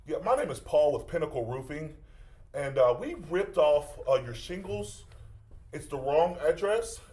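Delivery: plays a pushy roofer on the phone; prank caller voice. Acted. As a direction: fake roofing salesman, firm.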